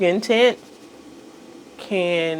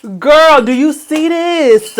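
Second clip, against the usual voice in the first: excited squeal; 9 semitones higher, 5 dB louder, slower than usual. Real, not acted.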